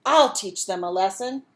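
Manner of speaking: angry. Acted. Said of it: "he became very angry".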